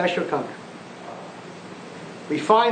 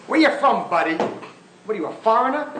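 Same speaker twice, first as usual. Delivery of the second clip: mock radio caller; 4 semitones higher, faster than usual. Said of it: "he has just told off".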